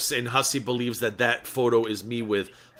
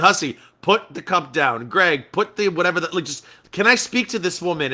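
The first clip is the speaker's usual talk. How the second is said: louder, higher retold plea; exasperated plea; 5 semitones higher, 4 dB louder than usual. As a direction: beg them to shut up, raised voice. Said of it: "the two of them were just screaming".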